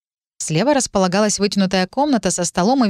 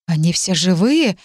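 surprised. Acted. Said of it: "с удивлением спросила я".

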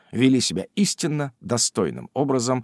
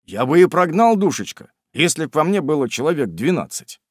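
peaceable tone; 3 semitones higher than usual. Acted. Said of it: "миролюбивым тоном".

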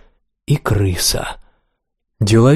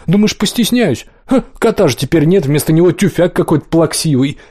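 mocking; 4 semitones higher than usual. Rat mocks the cat.

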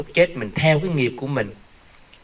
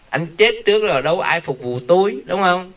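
mock widow's whine; 6 semitones higher than usual. Widow's excuse, voiced by preacher.

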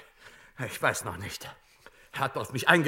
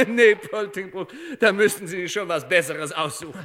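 laughing dismissal; 3 dB louder than usual. Acted. Director laughs at claim.

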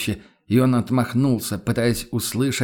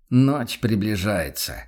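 slow, measured warning; a hunter warning the room that night falls; unhurried; slower than usual. Acted. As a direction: let each word hang slowly. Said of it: "неспешно проговорил".

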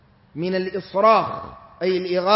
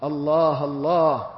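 low, hushed mild wonder; understated low astonishment; quoted amazement; 5 semitones lower than usual. Retold or imitated. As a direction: marvel under a lowered voice. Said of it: "يعني يتعجب من كلام الشيطان".

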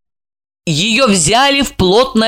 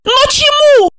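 shouting. A narrator's reading. Alexandra screams at Gorokhov, fists clenched, shouting. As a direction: scream back the question. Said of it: "закричала".

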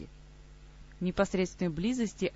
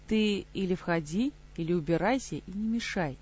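mocking. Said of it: "насмешливо отозвался его противник".

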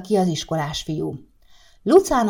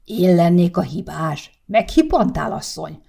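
flaring up; 3 dB louder than usual. Acted. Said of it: "kapta fel a nagypapa a vizet".

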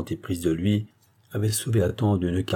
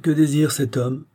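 higher, singsong aristocratic question; lilting, nonchalant voice; 7 semitones higher than usual. A narrator's reading. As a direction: ask it idly with a lilting accent. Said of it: "avec un accent chantant une voix nonchalante". (voix nonchalante, chantante, plus haute)

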